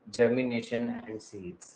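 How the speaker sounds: very slow, each word drawn out for the class; slow dictation. Shown as a demonstration. Teacher dictating the topic to students, very slow. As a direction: spell it out slowly for students to copy. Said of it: "आज हम पढ़ेंगे".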